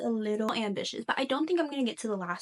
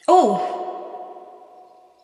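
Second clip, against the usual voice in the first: surprised gasp; 5 semitones higher, 12 dB louder than usual. Real, not acted. Shock at screen time.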